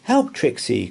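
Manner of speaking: a touch of alarm calling the dog; mild cry for help. Acted. Boy dodging a net calls his dog, mild alarm. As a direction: call to the dog while dodging. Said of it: "cried George".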